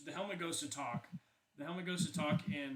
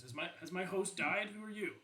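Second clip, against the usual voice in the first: higher, questioning helmet voice; a touch of surprise, pitch lifting on the questions; questioning, mildly surprised; 5 semitones higher than usual. Acted. Helmet asks whether its host died, mildly surprised. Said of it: "questioning ... she does seem surprised".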